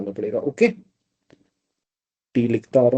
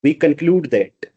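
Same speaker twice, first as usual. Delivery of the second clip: slow dictation; much slower than usual. Shown as a demonstration. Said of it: "I should write that".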